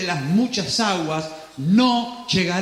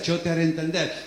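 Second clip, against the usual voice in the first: lower, faster calm divine reply; voice of God; 6 semitones lower, faster than usual. Acted. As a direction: answer back steadily as God. Pero dice Dios.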